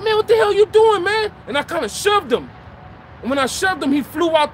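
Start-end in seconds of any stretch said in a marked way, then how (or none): 0.0-1.3 high, loud "what the hell" yelled at the man; angry shout. Retold or imitated. Man yelling at a drunk who wandered into his home, angry shout. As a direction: bark it at the stranger in your house.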